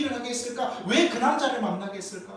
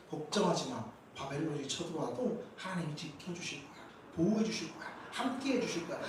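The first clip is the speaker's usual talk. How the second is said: mock soothing, softer and hushed; soothing false prophet; 4 semitones lower, 9 dB quieter than usual. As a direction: coo comforting lies like a flattering prophet. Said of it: "사람들이 듣고 싶어하는 선지자의 말은". (달콤하게 속삭이는 거짓 선지자)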